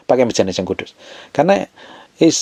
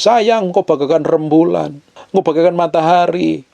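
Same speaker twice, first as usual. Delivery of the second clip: slow, higher, drawn-out husbandly flattery; mock sweet talk; 5 semitones higher than usual. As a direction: imitate a husband buttering up his wife. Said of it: "ngomong manis-manis". (gombalan manis suami, dibuat-buat)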